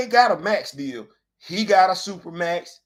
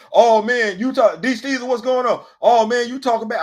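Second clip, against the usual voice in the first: imitated commenters; 5 semitones higher, 6 dB louder than usual. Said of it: "people coming in the comment section".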